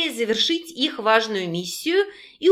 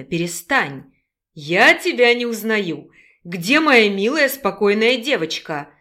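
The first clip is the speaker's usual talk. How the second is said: put-on persuasive young man, lightly lowered; lightly voiced young man. Male character voice.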